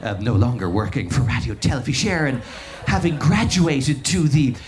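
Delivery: a lightly voiced rambling radio DJ, laughing as he goes; a hint of a giddy DJ chatting live on air; Dave Fanning. DJ rambling live to listeners at a festival, lightly mimicked and laughing. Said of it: "It's Dave Fanning here".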